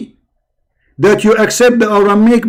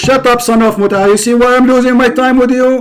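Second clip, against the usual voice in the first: heated, a bit higher and pushier; angry retort; 4 semitones higher than usual. Real, not acted. Host scolding caller for not proving him wrong, angrily. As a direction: scold the caller you think is a coward.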